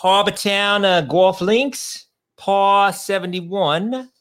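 mock Boston accent on Harbortown Golf Links, par seventy-one; hammed-up Boston reading of the course name. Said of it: "uh, accent?".

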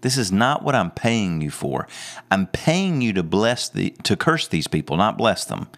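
lightly acted indignant protest; upset. Preacher retelling the king confronting Balaam, mildly upset. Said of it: "Well, Balak gets upset".

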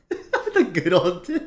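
high, slow, laughing wistful sigh; mock nostalgic. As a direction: sigh it like a dreamy old-timer.

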